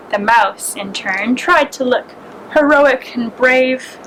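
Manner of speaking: gentle, unhurried storybook read; reading aloud for young listeners at story time; story narration. A narrator's reading. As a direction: tell it like a bedtime fable to little ones. Reads a fable to children.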